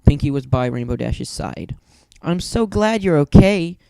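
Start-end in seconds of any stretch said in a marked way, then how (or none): 2.2-3.8 higher, slow, tearful relief; overjoyed through tears; grateful tears. A narrator's reading. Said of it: "through grateful tears".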